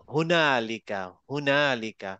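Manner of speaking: হুনালিকা with the হ from deep in the throat; ha from deep inside. Shown as a demonstration. Teacher models for students, হুনালিকা with deep-throat হ. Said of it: "হা ভিতর থেকে আসবে".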